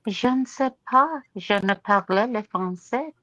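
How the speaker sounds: halting schoolroom French; French accent. Acted. Becky excuses her rusty French, halting French accent. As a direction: fumble through remembered French, unhurried. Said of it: "with the French accent".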